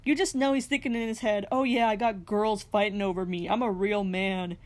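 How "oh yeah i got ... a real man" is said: imitated smug inner monologue; mock macho self-congratulation. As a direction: voice his self-satisfied thoughts, slowing at the end. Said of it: "Javi is just so smug".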